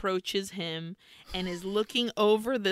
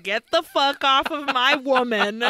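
retold outraged order, pushed a little louder; mock angry command; 3 semitones higher, 4 dB louder than usual. Recapping the hero rescuing his woman, mock angry command. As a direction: act out a protective outburst, half in fun. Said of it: "and he's like".

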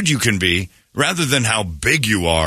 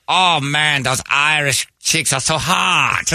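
mock smitten guy; 3 semitones higher, slower than usual. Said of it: "looks over and goes".

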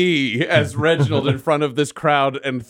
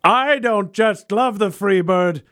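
slow, high orator's shout; triumphant proclamation; 11 semitones higher, slower than usual. Acted. Reginald answering the song-request yell, triumphant shout. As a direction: proclaim it grandly, stretching every word.

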